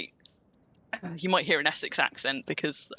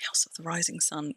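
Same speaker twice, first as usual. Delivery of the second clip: 1 whisper; 4 dB quieter than usual. Real, not acted. Whispered aside to herself.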